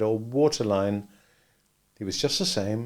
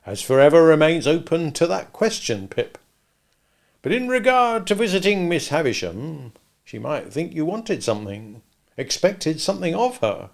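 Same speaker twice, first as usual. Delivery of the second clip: Joe's voice; 6 semitones higher, 5 dB louder than usual. A narrator's reading. Joe voiced in dialogue.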